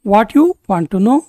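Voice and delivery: slow, careful repeat for learners; a teacher slowing down. Shown as a demonstration. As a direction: spell it out slowly so students can follow. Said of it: "phrase lesson, normal then slow".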